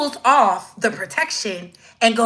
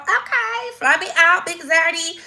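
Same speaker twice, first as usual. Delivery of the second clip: high, sing-song imitation of a flirty woman; mock flirty woman; 6 semitones higher than usual.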